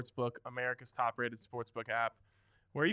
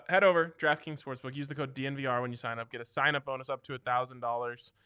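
ad read. Acted. Sponsor ad read.

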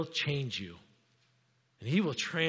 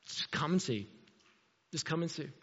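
understated invitation; 8 dB quieter than usual. Retold or imitated. Simple invitation instead of arguing.

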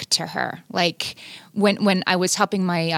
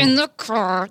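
through clenched teeth; 3 semitones higher, slower than usual. Retold or imitated. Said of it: "If she got to the clenched teeth".

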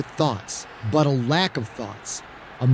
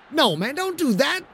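dismayed protest; 14 semitones higher than usual. Acted. Pine protests a risky run.

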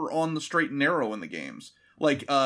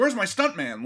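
mock diva demand, raised pitch; prima donna; 4 semitones higher than usual. Star missing his stuntman, prima donna complaint. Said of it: "like, a real prima donna".

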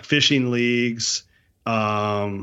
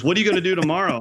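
higher Scottish-tinged Canadian voice; Canadian accent turning Scottish; 8 semitones higher, much faster than usual. Retold or imitated. Owner asks hunter about tomorrow, Scottish-tinged Canadian accent. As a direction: imitate bush Canadian sliding into Scottish. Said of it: "it also turned Scottish".

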